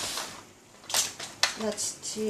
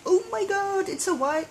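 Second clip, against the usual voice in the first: mock panic; 10 semitones higher than usual. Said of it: "it's not like".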